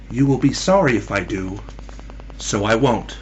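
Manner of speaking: soft, low, understated answer; quiet reply. A narrator's reading. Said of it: "her only and quiet reply".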